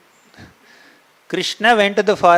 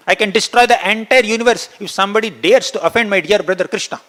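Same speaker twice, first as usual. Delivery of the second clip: raised and louder, proud threat; offended, boasting; 6 semitones higher, 4 dB louder than usual. A narrator's reading. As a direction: boast that he can destroy everything. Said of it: "He became so offended".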